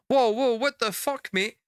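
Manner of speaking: high, startled yelp of protest; retelling a startled stranger grab, yelping whoa; shocked whoa. Retold or imitated. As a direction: jump back in alarm, half laughing.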